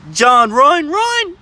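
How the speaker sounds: high frantic yell to run; being chased. Real, not acted. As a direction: shout urgently for him to flee. Urges crawfish to flee.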